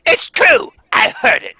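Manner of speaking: high, loud insistence; insistent cry. Acted. Faye insisting to Schill about the clown's threat. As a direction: insist she heard it.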